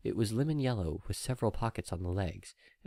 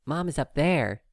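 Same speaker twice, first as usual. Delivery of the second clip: high, bright little filly voice; a small foal full of trust; little filly proudly pointing at the sky; happy filly; 7 semitones higher, 5 dB louder than usual. Acted.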